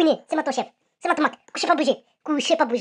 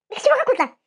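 sudden much higher indignant "what are you on about"; exaggerated outrage at the rival; mock disbelief; 9 semitones higher, faster than usual. Real, not acted. To rival Ramsès, mocking his claims: mock disbelief.

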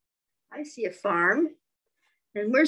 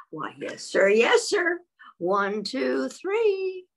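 hen answers; 4 semitones higher, much slower than usual. Acted.

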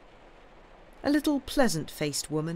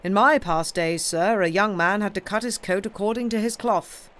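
lightly voiced uncle, firm and louder; stern scolding uncle; 2 semitones higher, 5 dB louder than usual. Uncle confronting Sam over money, lightly acted scolding. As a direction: take a young nephew to task.

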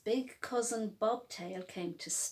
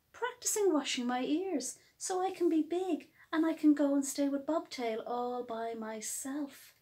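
eager Hopscotch; 3 semitones higher than usual. Acted. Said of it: "said Hopscotch".

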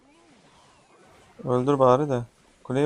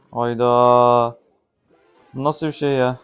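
loud, stretched hayda; surprised exclamation; 4 dB louder, much slower than usual. Real, not acted. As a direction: burst out in surprise. Surprise at opponent's move.

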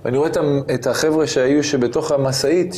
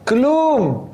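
astonished; 9 semitones higher, much slower than usual. Real, not acted. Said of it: "disbelief nothing happened".

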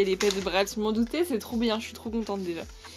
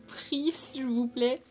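whispering; 2 semitones higher, slower than usual. Real, not acted. Polite plea to viewers.

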